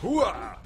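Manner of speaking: short mock action-hero grunt; whooped catchphrase noise; imitated Wolverine grunt. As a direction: grunt it like a game character. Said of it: "See that noise he makes?".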